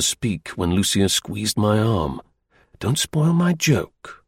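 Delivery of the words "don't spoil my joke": pleading. Acted. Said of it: "he pleaded".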